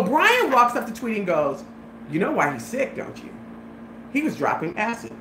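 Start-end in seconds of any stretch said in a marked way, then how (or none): 2.1-5.1 slightly lowered, softer tattle; retold as a quiet aside; imitated tattling. Brian tells on Frankie to Tweety, quiet tattling.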